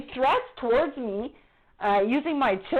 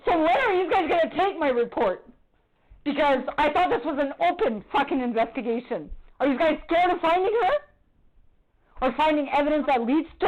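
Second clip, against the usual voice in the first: angry demand; 3 semitones higher than usual. Real, not acted. Confronting officer on the phone.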